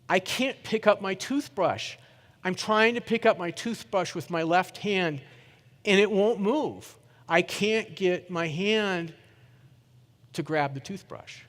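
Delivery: slow, tearful mock of his wife; retold crying wife. Husband retelling his frightened wife's words, slow and lightly tearful. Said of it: "And she's crying".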